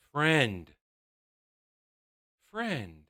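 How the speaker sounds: low, soft, dopey; a hint of a slow simple wizard; mock wizard. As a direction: mumble it like a simpleton. Wizard voiced.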